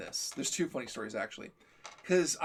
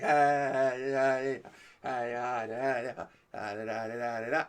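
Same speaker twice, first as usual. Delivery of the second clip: put-on happy five-year-old; 2 semitones lower, slower than usual. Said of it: "like a five-year-old".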